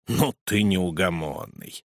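put-on slow, low mild grumble of an old man; grumbling. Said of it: "проворчал советник".

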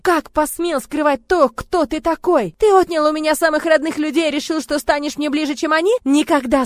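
furious screaming. Acted. Heroine screaming accusations at Murat, furious. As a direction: hurl every word at him.

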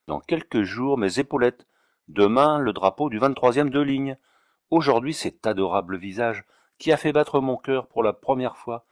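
lightly voiced colonel in a rapturous monologue; theatrical self-questioning turning to an ardent proposal; impassioned colonel. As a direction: declaim it like a lovestruck officer, with swelling emphasis.

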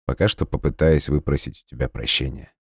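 soft, calm answer; gentle reply. Acted. Dima soothing his angry girlfriend, soft gentle reply. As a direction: answer her softly. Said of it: "мягко ответил Дима".

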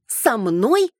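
flaring up. Acted. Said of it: "взвилась она".

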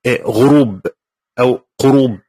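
غروب with gh then قروب with q; gh or q pronunciation. Retold or imitated. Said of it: "يقول إيه".

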